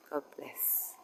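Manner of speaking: breathy whispered farewell. Real, not acted. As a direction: whisper it softly. Quiet farewell to statue.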